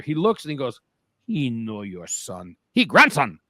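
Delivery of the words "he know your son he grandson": imitated Asian accent, broken English; retold line in an imitated Asian accent. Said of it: "he did have an accent".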